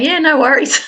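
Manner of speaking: high, loud and casual Aussie "Yeah, no worries"; broad Australian. Retold or imitated. Susan answering her posh British employer, broad Australian. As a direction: answer like a laid-back Australian. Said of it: "And I'll be going".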